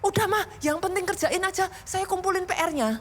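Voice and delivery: a hint of a kid wanting the easy way out; child to mom. Child asks Mom to just do the homework, lightly mimicked. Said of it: "Banyak anak kan sukanya gitu".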